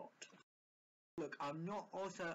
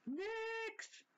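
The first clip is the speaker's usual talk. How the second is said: offhand nurse; much slower than usual. Shown as a demonstration. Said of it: "Then you can do it like".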